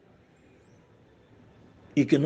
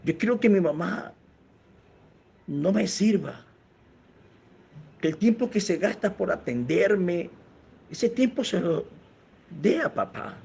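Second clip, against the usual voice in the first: retold tearful plea; 4 semitones higher than usual. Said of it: "decía el joven llorando".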